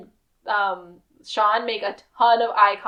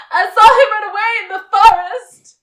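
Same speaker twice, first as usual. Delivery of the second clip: higher, louder yelled claim; desperate shout; 10 semitones higher, 10 dB louder than usual. Retold or imitated. Sean shouting a last bluff while being arrested, loud. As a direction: yell it to throw them off. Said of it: "he just goes".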